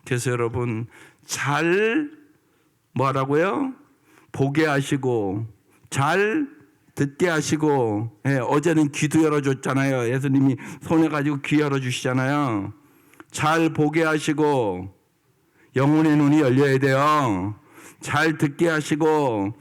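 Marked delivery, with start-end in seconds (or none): 1.2-8.2 teaching the congregation a prayer; slow prayer cadence. Shown as a demonstration. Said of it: "slow prayer phrases". 13.3-19.5 teaching the congregation a prayer; slow prayer cadence. Shown as a demonstration. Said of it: "slow prayer phrases".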